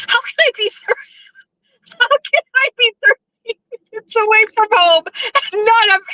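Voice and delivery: high, helpless laughing disbelief; laughing helplessly. Real, not acted. Lost driver laughing helplessly, thirteen minutes from home. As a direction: laugh while asking at being lost.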